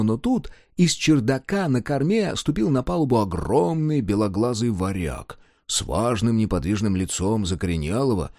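ordinary delivery

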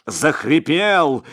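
usual speaking voice

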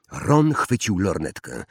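ordinary delivery

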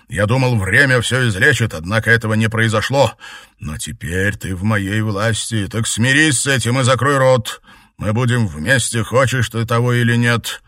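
high, loud, domineering tyrant; dark lord. A narrator's reading. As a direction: crush her will. Emperor threatens.

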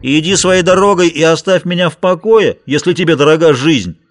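high, loud blustering shout. A narrator's reading. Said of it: "крикнул".

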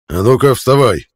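raspy gruff commander barking; creaky centurion voice. A narrator's reading. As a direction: creak out the order. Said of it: "скрипучим голосом центуриона Гаги".

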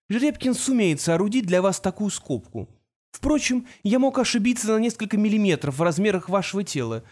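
lightly voiced know-it-all teenager; young genius voice. Artemis continues, narrator voicing.

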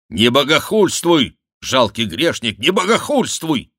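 loud, high stern rebuke; furious rebuke. Acted. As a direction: forbid the blasphemy. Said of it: "сказал король". (гневный упрёк, громко)

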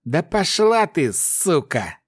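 slow exhausted snarl; spat through teeth, exhausted. A narrator's reading. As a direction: hiss it out drained and furious. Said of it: "процедил дрожащий от усталости Рю".

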